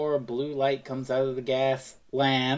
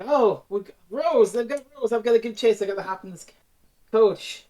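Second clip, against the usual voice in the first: urgent, raised, louder voice; excited Doctor; 5 semitones higher, 4 dB louder than usual. Retold or imitated. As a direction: rush it like you must give chase. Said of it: "the doctor's like".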